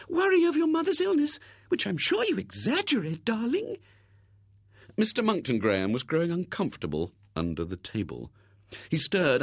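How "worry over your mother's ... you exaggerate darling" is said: soothing spinster. Acted. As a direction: soothe him like a fussing old maid. Miss Rubina soothing William.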